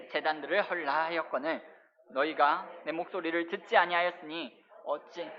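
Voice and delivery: measured, even recitation of scripture; scripture reading. Acted. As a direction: read the Bible passage aloud for a congregation to follow. Reads scripture aloud to congregation.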